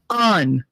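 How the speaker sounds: "On" as an open "ahn"; corrective "on". Shown as a demonstration. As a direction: model "On" with AH. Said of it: "It's very easy".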